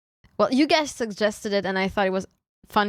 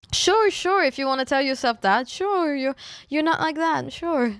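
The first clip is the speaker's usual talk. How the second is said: teasing; 5 semitones higher than usual. Pretend. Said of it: "I'm just teasing you".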